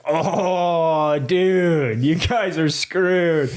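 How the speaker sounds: put-on drawn-out, slow drunk heckling; drunk driver. Drunk driver stops to haggle the crashed friends, slurry drawn-out imitation. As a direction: stretch the words out like a drunk passerby. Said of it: "drunk drivers are passing us like crazy".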